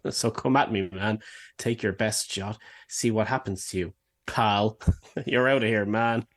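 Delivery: full stops after "me", "man" and "shot"; reading the punctuation. Shown as a demonstration. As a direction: set "man" and "pal" apart as separate sentences. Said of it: "do the punctuation in places where it actually had it".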